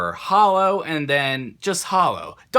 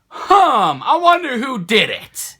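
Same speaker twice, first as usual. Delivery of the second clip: mock innocent musing; 9 semitones higher, 6 dB louder, slower than usual. Mocks his own slow realisation.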